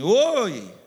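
loud retold call across the store. Woman calling to the pastor across the supermarket, loud call. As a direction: shout hi to get attention. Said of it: "uma mulher assim gritou assim".

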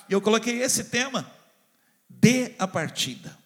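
normal talking voice

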